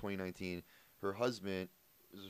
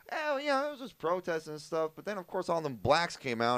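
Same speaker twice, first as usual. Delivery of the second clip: retold uncle; 5 semitones higher than usual. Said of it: "He's like".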